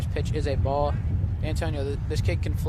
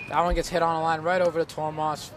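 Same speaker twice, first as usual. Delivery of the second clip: excited play-by-play; 3 semitones higher, 5 dB louder than usual. Real, not acted.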